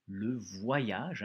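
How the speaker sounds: "voyage" carefully sounded out as "vwa-yage"; careful pronunciation. Shown as a demonstration. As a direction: articulate "voyage" in clear syllables. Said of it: "ça va être difficile aussi".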